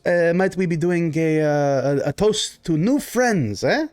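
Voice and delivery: animated baron with questioning tags; Baron, proposing toast. Acted. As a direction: make a halting welcome toast.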